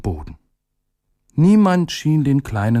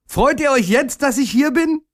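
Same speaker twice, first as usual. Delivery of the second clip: much higher, hopeful rising question; little day overjoyed. A narrator's reading. Little day asking the people if they are glad now, high and eager. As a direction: ask high and delighted.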